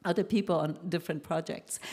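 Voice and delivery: quoting him through light laughter; laughing retelling. Retold or imitated. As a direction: chuckle while retelling his reply. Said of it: "he laughed at us because he said".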